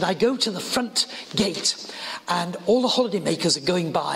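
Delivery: lightly imitated posh English accent; a touch of posh old lady's English. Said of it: "posh voice".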